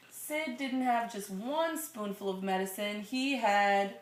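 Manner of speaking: put-on slow, gentle read-aloud to a child; storybook reading voice; story narration. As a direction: read it like a bedtime picture book. Reading picture book to child.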